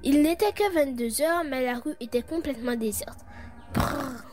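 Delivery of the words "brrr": lips trilled as if from a shiver; a shivery, rolled brrr. A narrator's reading. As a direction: shudder out a brrr. Shivering at a deserted night street.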